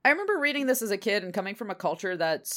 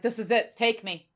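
melodramatic martyr; 3 semitones higher, 3 dB louder than usual. Retold or imitated. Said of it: "the amount of drama".

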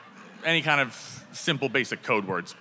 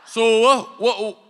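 high loud disbelief; exasperated yell; 8 semitones higher, 7 dB louder, slower than usual. Retold or imitated. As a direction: shout in frantic confusion. Frustrated yelling at roommate.

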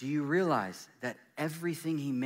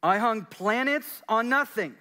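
higher and louder, God's proclaiming voice; God speaking; 10 semitones higher, 8 dB louder than usual. Acted. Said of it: "as if God is saying this over you".

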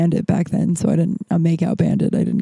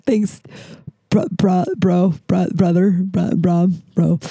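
awkward stammer; slower than usual. Shown as a demonstration. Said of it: "it sounds weird when I call him".

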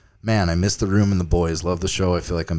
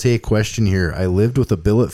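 lightly put-on Canadian accent, a bit louder; 2 semitones higher, 5 dB louder than usual. Shown as a demonstration. Host reads a Canadian listener email in a mock Canadian accent. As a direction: read it like a Canadian hockey guy, half-hearted. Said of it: "should I read in a Canadian accent?".

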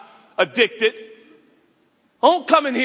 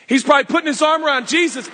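louder and fast, bursting with glee; excited retelling; 2 semitones higher, 4 dB louder, faster than usual. Shown as a demonstration. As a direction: say it again with a rush of excitement. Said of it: "and he's probably putting his arm around Jesus".

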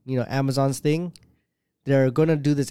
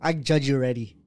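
mock Karen; 3 semitones higher than usual. Acting out a Karen.

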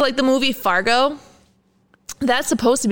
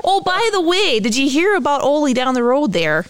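put-on higher, chatty small-town Minnesota accent; 4 semitones higher than usual. Neighborly small-town gossip in a Minnesota accent. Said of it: "movie quote ... Minnesota accent".

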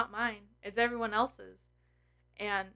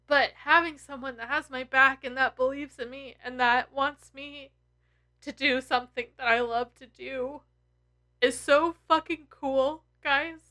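emotional; 3 semitones higher than usual. Real, not acted. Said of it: "I'm gonna get all emotional".

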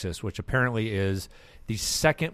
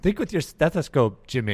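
mock Scottish yell; 6 semitones higher, 5 dB louder than usual. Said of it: "Not sure we're gonna see a hospital".

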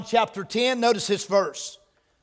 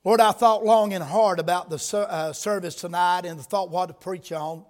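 prayer. Acted. Opening prayer before sermon.

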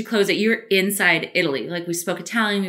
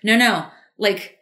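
pleading husband; 5 dB louder, much slower than usual. Retold or imitated. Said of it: "he's like".

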